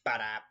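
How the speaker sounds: soft ba-da chop effect. Retold or imitated. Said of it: "the sound effects are by me".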